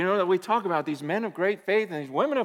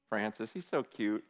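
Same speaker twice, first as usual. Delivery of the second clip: tender; 9 semitones lower, 9 dB quieter than usual. Pretend. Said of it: "picture God in heaven going".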